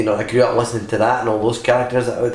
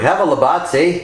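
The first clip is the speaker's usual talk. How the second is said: put-on Canadian accent; 5 semitones higher than usual. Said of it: "Canadians are like".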